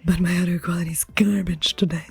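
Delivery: whispering, all breath; whispered aside. Real, not acted. Confessing bad audio to viewers, whispered.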